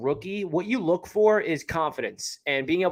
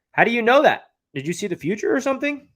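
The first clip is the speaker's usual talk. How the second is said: mock incredulous; 6 semitones higher, 5 dB louder than usual. Real, not acted. Challenging a doubtful chat comment.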